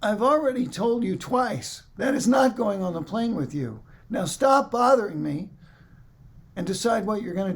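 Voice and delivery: a hint of a cold, fed-up gate agent; stern rebuke. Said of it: "looks at me with a stone face".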